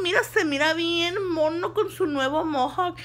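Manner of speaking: laughs through the compliment; laughing embarrassed. Retold or imitated. Stylist praising the customer's new mohawk, laughing. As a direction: giggle while flattering.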